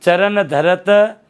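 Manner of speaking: very slow, each syllable drawn out; slow recitation. Shown as a demonstration. Teacher reciting a verse line to show a word, very slow. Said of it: "अगला देखो चरण".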